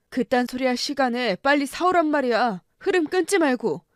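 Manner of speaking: husband ordering his wife out for liquor, angry. Acted. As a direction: bark the order at her.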